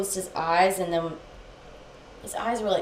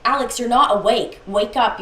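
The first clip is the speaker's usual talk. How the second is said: raised, louder plea; retold urgent insistence; 4 semitones higher, 7 dB louder than usual. Girlfriend trying to wake sleepwalking boyfriend, insistent. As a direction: push to get through to him.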